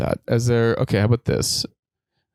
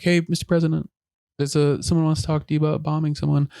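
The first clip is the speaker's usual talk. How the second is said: lightly voiced secretary, higher pitch; mock secretary addressing the boss, pitched up; secretary on a call; 5 semitones higher than usual. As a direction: put on a hint of a receptionist relaying a call. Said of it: "they're just, like, answering calls and like".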